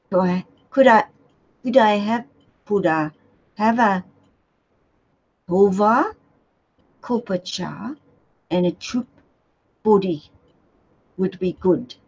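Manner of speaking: hesitant, put-on British accent. Shown as a demonstration. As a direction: feel your way into a British accent. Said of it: "a British accent".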